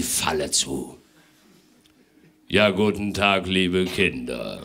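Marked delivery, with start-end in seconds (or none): 2.5-4.6 slow, deep Santa greeting. Acted. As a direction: drop into a deep, booming Santa voice. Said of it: "sagte er mit tiefer Stimme".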